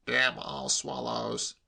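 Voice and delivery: slow, restrained curse; exasperated uncle. A narrator's reading. Uncle fed up with nephew's swallow facts, exasperated. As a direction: grumble the curse slowly.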